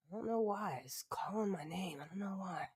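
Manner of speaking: breathy unvoiced whisper. Real, not acted. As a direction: whisper it like a secret. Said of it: "whispered aside".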